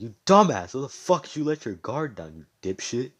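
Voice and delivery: angry scolding. Acted. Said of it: "He's like".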